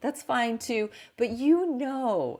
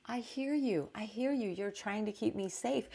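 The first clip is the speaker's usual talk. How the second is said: softer, tender acknowledgment; loving reassurance; 4 dB quieter than usual. Acted. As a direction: gently soothe an anxious inner voice. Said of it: "We can lovingly respond to it".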